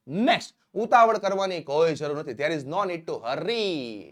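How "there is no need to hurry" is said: very slow, word by word, for learners; slow dictation. Shown as a demonstration. Teacher to students, slow clear dictation. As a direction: spell it out slowly so students can write. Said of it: "teacher dictates English model sentence".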